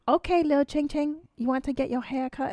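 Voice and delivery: lightly put-on Asian accent, talking to a pet; imitated Asian accent. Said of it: "he's got the similar accent".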